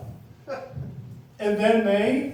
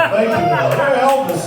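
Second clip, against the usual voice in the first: mock praise; 6 semitones higher, 9 dB louder than usual. Mocking his own Elvis bit.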